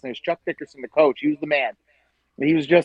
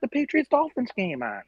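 much higher mock voice of a radio host; imitating radio host; 11 semitones higher than usual. Host mimics old radio coach demanding other games, mock voice. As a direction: lampoon the coach barking orders on air. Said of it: "he's like".

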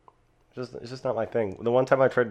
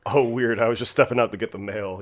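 slightly raised, feigned offhand surprise; mock casual; 2 semitones higher, 5 dB louder than usual. Cody to the delivery guy, mock casual. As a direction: play it fake-casual, as if just passing by. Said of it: "he was all casual with the guy".

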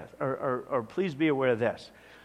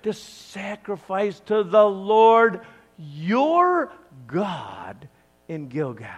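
loud, higher self-justifying protest; insisting; 3 semitones higher, 5 dB louder than usual. Acted. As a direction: argue you did nothing wrong. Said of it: "Saul insisted".

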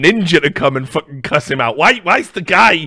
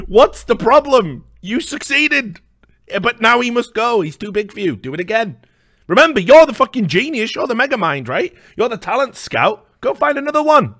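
sarcastic mockery; 7 semitones higher, 3 dB louder than usual. Real, not acted. Ridiculing Banks over losing his star, high and sarcastic. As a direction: needle him with high sarcasm.

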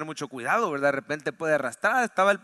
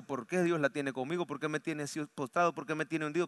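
softer, hurt lament; quiet despairing complaint; 3 semitones lower, 6 dB quieter than usual. Pretend. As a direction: ask it quietly, sunk in self-pity. Believer complaining under the water.

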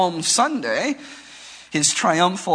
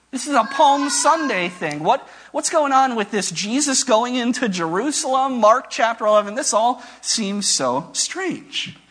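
higher-pitched bewilderment, slowing at the end; baffled protest; 4 semitones higher than usual. Acted. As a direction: voice a puzzled objection, drawing out the last words. Acting out puzzlement at the reading.

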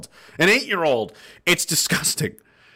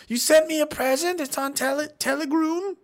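surprised; 13 semitones higher than usual. Real, not acted.

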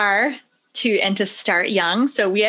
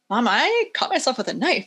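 put-on a child's startled report, slightly higher; mildly imitated shock; 4 semitones higher than usual. Son walks into mom's office after a cut, mock shocked. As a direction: lightly mimic a shocked kid. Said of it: "Like, he's shocked".

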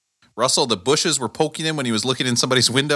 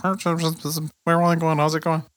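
far away echo; 5 semitones higher, slower than usual. Retold or imitated. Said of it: "it sounds like I'm, like, in a cave".

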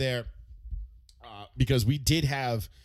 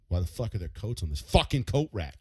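angry dad; 6 dB louder than usual. Retold or imitated. Dad yelling at the kids about coats on the rack. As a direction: bark it like a furious father. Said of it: "Dad would come home and be like".

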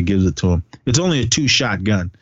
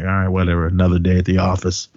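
lightly acted indifference, lower pitch; retold nonchalance; 4 semitones lower, faster than usual. Killer after shooting two hunters, retold as unbothered. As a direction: shrug it off like routine. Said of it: "he's just like nothing".

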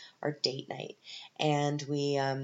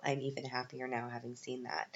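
whisper; 6 dB quieter than usual. Real, not acted. Unvoiced whisper aside.

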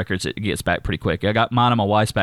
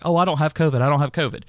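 higher-pitched mock denial; imitated protest; 5 semitones higher, faster than usual. Housemate waving off being fussed at, mock protesting. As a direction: mimic her brushing it off, pitched up.

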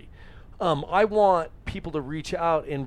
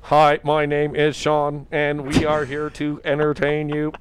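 stiff announcer voice; 6 dB louder, slower than usual. Retold or imitated. Mock stiff podcast intro.

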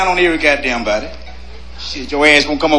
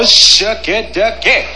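admiring; 3 semitones higher, much slower than usual. Shown as a demonstration. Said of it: "you say".

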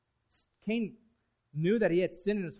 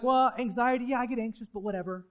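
brushing it off. Retold or imitated. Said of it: "And you're like".

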